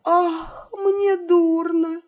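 high, slow, theatrical faint; mock moan. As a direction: moan as if about to swoon. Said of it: "простонав".

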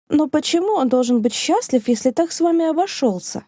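high-pitched indignant cry, climbing on вами; outraged cry. Acted. Rosina cries out against the man who wronged her friend. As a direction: fling the question out in protest. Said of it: "закричала Розина".

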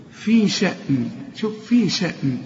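"في شأن" with the final n plain, not hummed; no nasal hold. Shown as a demonstration. Teacher demonstrating the ending to students, no nasal hold. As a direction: end "شأن" on a clear short n. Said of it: "لكن لا تغن".

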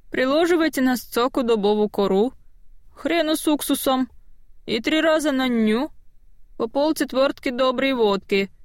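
бабка-знахарка, выше обычного; поучай как деревенская бабка; старая знахарка с говором. Acted. (старушечий говор знахарки)

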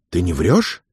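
ordinary delivery

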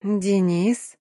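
husky questioning call; hoarse call. Acted. Girl luring Denis closer before headbutting him, hoarse call. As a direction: rasp his name to lure him. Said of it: "я хрипло позвала".

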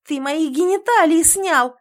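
hoarse outraged cry. A narrator's reading. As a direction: throw it back in horror. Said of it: "сиплю".

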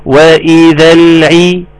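"وإذا العي" slow, ayn with a clear i; clear kasra. Shown as a demonstration. Teacher drilling the vowel on ayn, clear kasra. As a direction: open "العي" on a distinct i vowel. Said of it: "اكسر لي العين كويس".

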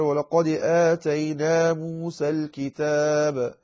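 slow, measured tajweed recitation; Quranic recitation. Shown as a demonstration. Teacher reciting a verse as an example, slow tajweed chant. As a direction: recite it evenly, drawing out the long vowels.

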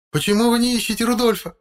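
woman's voice lifted high, on the verge of cracking; plead, voice about to break. A narrator's reading. Distraught wife asking police why they don't search, voice breaking. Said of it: "надломленным голосом".

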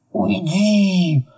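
hostile hissed dismissal. A narrator's reading. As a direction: hiss it to drive them away. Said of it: "зашипел Кощей".

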